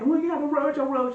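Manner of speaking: high, loud mock panic at a roach; retold roach scream. Retelling her roach panic to friends, a loud high mock scream. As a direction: shriek it like the roach is right there. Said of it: "I'm screaming".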